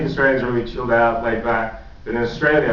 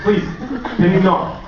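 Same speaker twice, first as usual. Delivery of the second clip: whiny shout; 8 semitones higher than usual. Retold or imitated. Shouting at mom.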